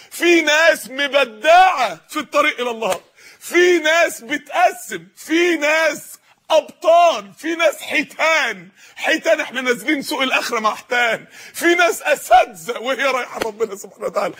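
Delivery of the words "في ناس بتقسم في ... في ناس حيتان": rising preach. Real, not acted. Preacher building rhetorical list.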